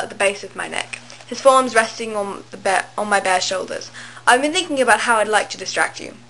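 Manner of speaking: put-on amateur British accent reading aloud; horrible British accent. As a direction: read the story in a badly faked British accent. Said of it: "in a horrible British accent".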